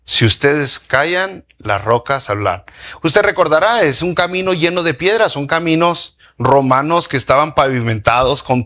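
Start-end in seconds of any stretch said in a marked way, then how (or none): 0.0-2.6 solemn warning. Retold or imitated. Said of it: "Jesús les advirtió".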